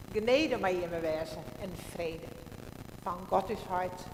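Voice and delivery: solemn measured church greeting; liturgical blessing. Acted. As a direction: intone it like a pastor opening the service. Liturgical opening votum and greeting.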